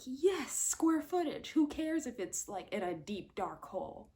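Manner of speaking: a dismissive homeowner brushing off the danger; mocking the character. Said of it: "And he's like".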